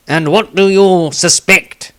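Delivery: a curious halfling asking slowly; the speaker's voice. A narrator's reading.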